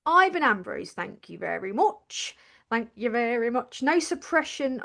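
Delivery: lightly put-on Suffolk accent; shaky attempt at a Suffolk accent. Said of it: "No suppression here of my Suffolk accent".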